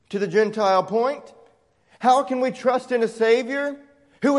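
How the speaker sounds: a mildly mocking skeptic's voice; incredulous skeptic. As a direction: challenge it like a doubter. Voicing skeptics' objections.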